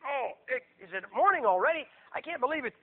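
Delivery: groaning, grumbling riser; hammed-up groggy moaning and grousing; just-woken Herod. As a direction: act dragged out of sleep, complaining. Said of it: "And Herod probably wakes up".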